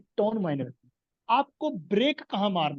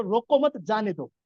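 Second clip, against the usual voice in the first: "रोको मत" raised, then "जाने दो" dropped; two phrases split after मत; break after मत; slower than usual. Shown as a demonstration. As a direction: lift मत, then let जाने दो fall. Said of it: "बीच में स्टॉप".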